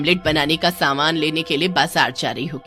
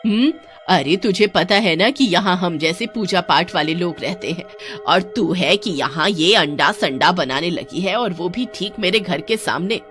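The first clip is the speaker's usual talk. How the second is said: angry scolding. Acted. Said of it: "गुस्से से बोलती है". (गुस्से में डाँटती काकी)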